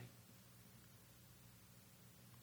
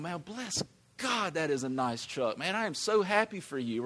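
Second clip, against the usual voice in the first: happy for you. Retold or imitated. Preacher models rejoicing over a neighbor's new truck, delighted. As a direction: gush with genuine joy for a friend. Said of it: "Instead of just going".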